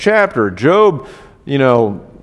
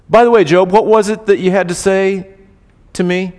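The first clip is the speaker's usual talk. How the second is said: mock-innocent question, a bit higher and louder; sarcastic; 5 semitones higher, 4 dB louder than usual. God teasing Job about his complaint, sarcastic. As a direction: needle him with a sly question. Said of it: "in a sort of sarcastic way".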